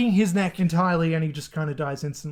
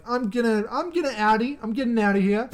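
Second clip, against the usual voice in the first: retold priest bailing out; 4 semitones higher than usual. Acted quote of the poisoned priest.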